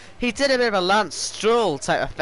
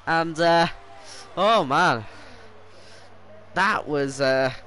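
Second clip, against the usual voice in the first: motorsport commentator; 2 semitones lower than usual. Acted. Live race commentary.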